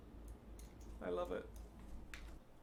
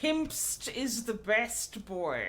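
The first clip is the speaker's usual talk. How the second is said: slow cooing pet talk; 3 semitones higher, much slower than usual. Real, not acted. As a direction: drawl it out to a sleepy pet.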